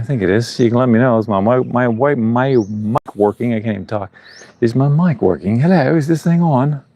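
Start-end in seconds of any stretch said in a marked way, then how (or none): 4.6-6.8 badly faked British accent, pitch lifting on the hello; poor British accent. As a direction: put on a clumsy British accent for a mock mic check. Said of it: "Poor British accent".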